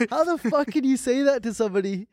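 high, outraged disbelief; mock-furious retort; indignant outburst. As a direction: demand it like you can't believe it.

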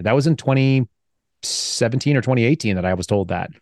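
normal talking voice

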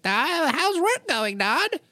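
high, sugary daughter leading her dad; sing-song innocent call to dad; sweet daughter voice. Retold or imitated. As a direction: daughter fishing for info on the phone, sweet and high. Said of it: "She's like".

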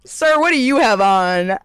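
slow, sultry tease; flirty phone voice. Retold or imitated. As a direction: drag it out like a come-on. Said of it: "are we doing some freaky phone call".

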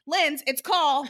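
slow, flat, laughing through it; fed-up third try, dragging; deflated. Retold or imitated. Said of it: "the second round is less enthusiastic".

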